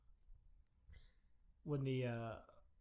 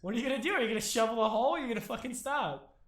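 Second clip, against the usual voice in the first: louder, higher, pressing questions; lightly raised voice, demanding an answer; mock yelling pressure; 4 semitones higher, 6 dB louder than usual. Five people screaming at a shoveler, mock pressuring. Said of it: "five other people screaming at you".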